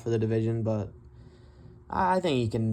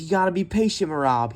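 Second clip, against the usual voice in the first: higher, louder calm coaching line; quoting Tim; 6 semitones higher, 5 dB louder than usual. Retold or imitated. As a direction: call it out like a cornerman. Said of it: "All Tim said was".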